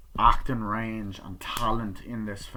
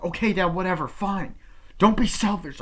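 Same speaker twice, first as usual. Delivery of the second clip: mocking whatever; 9 semitones higher, 6 dB louder than usual. Son mocking father's words.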